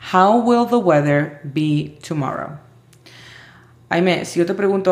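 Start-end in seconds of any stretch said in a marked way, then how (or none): 0.1-2.6 slowed, careful English; slow model question. Shown as a demonstration. Teacher repeating the question for Aimee, slow. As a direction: say it clearly for the student.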